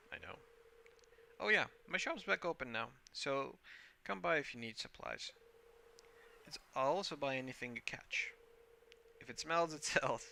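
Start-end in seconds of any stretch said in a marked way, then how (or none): 1.4-10.3 jolly fisherman Willy. Acted. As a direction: pitch the shop like a jolly old sailor.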